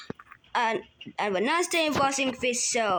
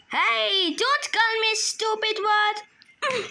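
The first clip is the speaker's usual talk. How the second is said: hurt protest; 6 semitones higher, slower than usual. Pretend. Toy insulted as stupid.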